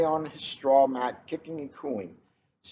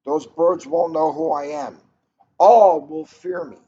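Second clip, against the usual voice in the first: fierce boast; 8 dB louder than usual. Acted. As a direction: roar it like a jaguar. Hero boasts in jaguar mask.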